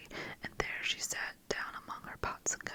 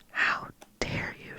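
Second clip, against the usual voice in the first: slow, higher whispered outrage; 6 dB louder, slower than usual. Acted. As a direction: spit out how dare you in a hissed whisper. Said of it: "she cried".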